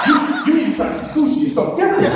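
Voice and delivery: high, fast, laughing push; laughing tease. Retold or imitated. Urging a friend to try sushi, fast laughing tease. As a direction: rush it out, teasing through laughter. Teasing friend about his food.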